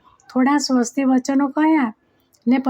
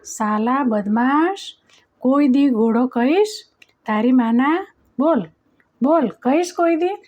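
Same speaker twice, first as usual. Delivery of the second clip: roaring threat. Acted. King grabs the boy and roars at him in anger. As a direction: bellow it at the boy like a furious king. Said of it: "ત્રાડ પાડી".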